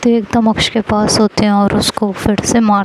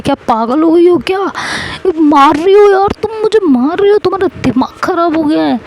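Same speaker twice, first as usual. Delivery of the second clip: startled yelp; 8 semitones higher, faster than usual. Acted. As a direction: yelp in shock at being hit. Husband hit with badminton racket.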